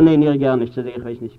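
loud burst of denial, pitched low; emphatic denial. Acted. Disciple denies his master a second time, loud low protest. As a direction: deny it forcefully, then drop off.

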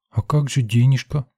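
put-on squeaky little girl. Little girl asking about the money, squeaky. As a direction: ask in a tiny squeak. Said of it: "пропищала девчонка".

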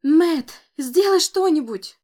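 high, loud panicked cry for help; terrified scream. A narrator's reading. Grandmother screams to Matt to save the boy, terrified. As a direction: scream his name in terror. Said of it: "в ужасе закричала".

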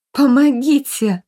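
high, loud, drawn-out cry for help. A narrator's reading. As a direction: scream for help in terror. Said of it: "прокричала Софи". (громкий крик о помощи)

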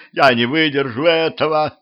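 understated pitiful wail; plaintive pleading. A narrator's reading. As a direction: plead pitifully, pitch lifted. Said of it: "жалобно попросил он".

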